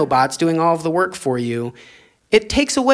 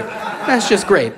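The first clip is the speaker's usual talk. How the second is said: laughing sarcasm; 3 semitones higher, much slower than usual. Acted. Repeat, slower with laugh.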